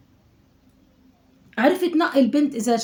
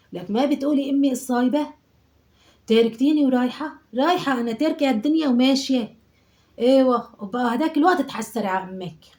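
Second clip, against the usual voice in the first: dramatic guilt trip; 4 semitones higher, 6 dB louder than usual. Acted. Guilt-tripping daughter on phone.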